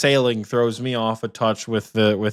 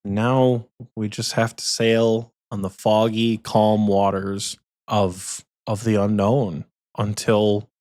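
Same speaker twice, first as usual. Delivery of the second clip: mock dramatic; slower than usual. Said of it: "so dramatic".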